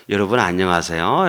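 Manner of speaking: lightly imitated Seoul speech; Seoul accent attempt. Shown as a demonstration. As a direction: greet in a mock Seoul accent. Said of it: "이렇게 서울말 한다도".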